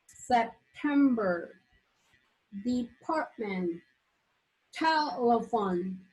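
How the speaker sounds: each word said slowly, syllable by syllable; slow, clear pronunciation drill; slow model words. Shown as a demonstration. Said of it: "examples of words with three syllables".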